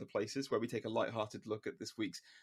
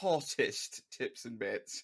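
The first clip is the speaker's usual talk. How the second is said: slow catchphrase; 3 semitones lower, much slower than usual. Acted. Title said like a catchphrase.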